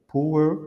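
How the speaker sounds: power with an unvoiced lip burst on P; voiceless P. Shown as a demonstration. Teacher contrasting with book, voiceless P in power. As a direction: pop the P in power. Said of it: "Les voiceless".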